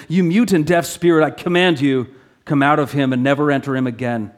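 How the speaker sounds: loud, forceful command to a spirit; commanding rebuke. Acted. Jesus rebuking the unclean spirit, loud commanding voice. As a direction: command it out with authority.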